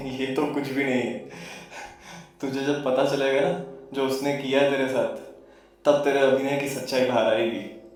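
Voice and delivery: low, soft voice opening on a chuckle; mocking taunter. Second voice warns the actor of betrayal, soft mocking taunt. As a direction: taunt him quietly, low and knowing.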